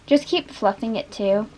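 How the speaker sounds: blocked nose from allergies; stuffy nose. Real, not acted. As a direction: talk through a stuffy nose. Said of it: "I keep sounding stuffy".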